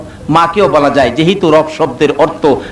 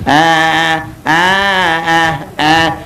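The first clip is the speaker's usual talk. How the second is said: mock child crying; slower than usual. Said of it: "কান্দা শুরু করছে".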